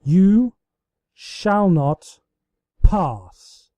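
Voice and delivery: loud, heroic cry; heroic shout. A narrator's reading. Celestia charging Luna with a heroic shout. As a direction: roar it as you charge. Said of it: "the princess shouted heroically".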